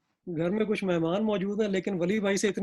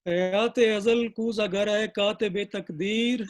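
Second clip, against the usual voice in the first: measured, deliberate mushaira delivery; Urdu ghazal recitation; slower than usual. Acted. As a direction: recite the couplet slowly, drawing out each phrase.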